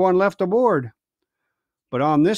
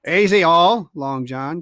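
crying out; 4 dB louder, slower than usual. Acted. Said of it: "cried Israel".

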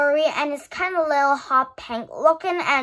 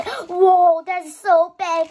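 mock viewers; 5 semitones higher, 5 dB louder, slower than usual. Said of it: "You guys say".

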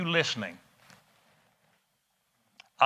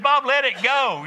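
friend's advice; 12 semitones higher, 7 dB louder than usual. Retold or imitated. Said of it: "He said".

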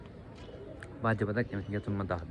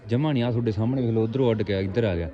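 hearty loud trucker banter; 3 semitones higher, 4 dB louder than usual. Real, not acted. Proudly showing the freed bird.

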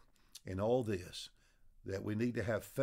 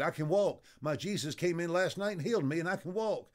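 excited claim; 6 semitones higher than usual. Retold or imitated. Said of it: "He said".

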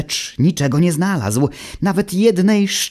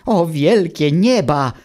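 despairing cry; 6 semitones higher than usual. Acted. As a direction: wail it like a castaway losing hope. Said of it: "wykrzyknął zrozpaczony rozbitek".

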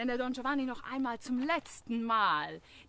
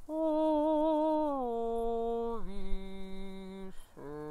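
deep bass voice; much slower than usual. Shown as a demonstration. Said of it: "für die tiefen Stimmen".

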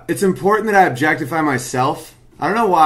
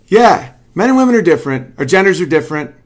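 higher and louder insistence; raised-voice emphasis; emphatic; 4 semitones higher, 5 dB louder, faster than usual. Real, not acted. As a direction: say it like a verdict. Restating his point forcefully.

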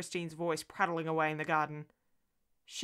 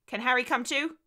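put-on higher, rising child's question; little girl asking; 6 semitones higher, 5 dB louder than usual. Daughter asking to bring her friend shopping, little-girl plea. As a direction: ask as a hopeful small child.

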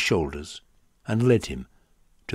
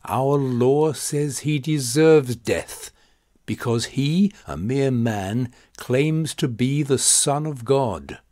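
loud, higher, slow furious crowd cry; angry shout; 6 semitones higher, 5 dB louder than usual. A narrator's reading. The Jews shouting their law at Pilate, loud and angry. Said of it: "So they shouted".

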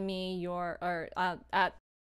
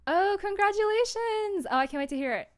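higher, louder delighted cheer; excited congratulations; 10 semitones higher, 10 dB louder than usual. Real, not acted. Streamer congratulating a viewer on their drama, excited. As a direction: burst out with real delight.

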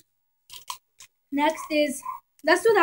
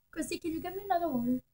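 calling out; 13 dB quieter, much faster than usual. Real, not acted. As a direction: shout for someone across the room. Calling out for water.

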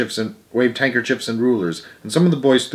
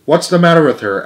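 eager question; 5 semitones higher, 5 dB louder than usual. A narrator's reading. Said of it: "asked Roy Hart eagerly".

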